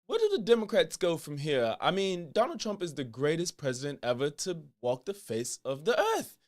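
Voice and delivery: attempted British accent, lightly done, pompous host; a talk-show host's mock British voice, barely shifted; Piers Morgan impression. Host opening his show for a random liberal, in a light British accent. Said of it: "I'ma show y'all my Piers Morgan impression".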